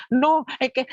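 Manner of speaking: high-pitched, flustered mock outburst; agitated. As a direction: imitate someone too worked up to explain. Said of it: "como acelerado, como que está agitado". (imitación agitada y acelerada)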